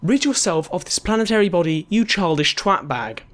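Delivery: mock posh British insult; British accent. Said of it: "say it in a British accent as well".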